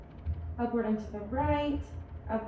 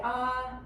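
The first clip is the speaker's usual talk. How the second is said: saying ahh. Shown as a demonstration. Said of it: "go ahead and say".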